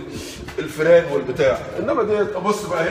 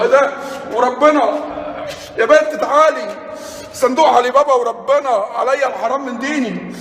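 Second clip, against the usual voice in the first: excited discovery; 5 semitones higher than usual. Real, not acted. Finds Ali Baba chest.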